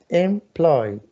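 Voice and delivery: "Employ" in two measured beats, em-ploy; syllable by syllable. Shown as a demonstration. Teacher confirming two syllables, "Employ" syllable by syllable. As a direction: sound out both syllables of "Employ". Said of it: "Two syllables".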